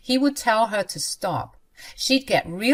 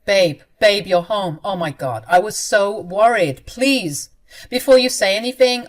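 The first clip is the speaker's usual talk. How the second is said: relieved urgency; 6 dB louder than usual. Acted. Relieved worried husband.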